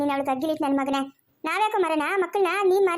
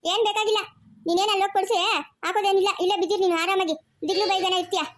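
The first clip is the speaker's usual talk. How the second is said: angry rejection; 5 semitones higher than usual. Acted. Wife angrily rejects husband.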